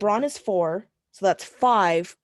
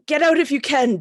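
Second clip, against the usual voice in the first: loud, raised call to companions; urgent call; 6 semitones higher, 6 dB louder than usual. Acted. Character calls to trapped companions.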